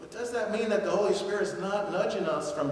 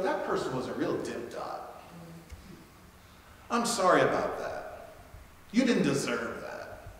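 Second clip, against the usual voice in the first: quiet consoling; 2 semitones lower, 3 dB quieter than usual. Pretend. Consoling the cashier.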